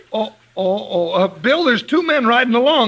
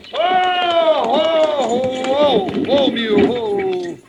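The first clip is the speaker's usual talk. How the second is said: drawn-out whoa to halt a team; calling to mules; much slower than usual. Acted. Halting the mule wagon.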